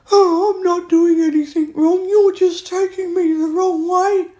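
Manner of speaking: high, loud, whiny mock of the other person. Mimicking an abusive friend's excuses, whiny and high. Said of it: "And then you go".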